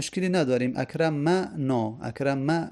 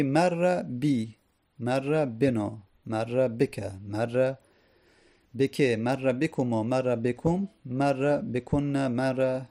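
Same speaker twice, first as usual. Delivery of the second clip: paradigm recitation; slower than usual. Acted.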